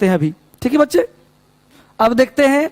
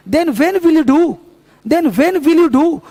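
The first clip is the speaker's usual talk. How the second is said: slow drill; 2 semitones higher, much slower than usual. Shown as a demonstration. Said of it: "मेरे साथ बोलो फटाफट".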